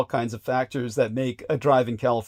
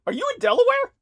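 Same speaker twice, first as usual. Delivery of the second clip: laughing; 7 dB louder, faster than usual. Real, not acted. Teasing guess, laughing.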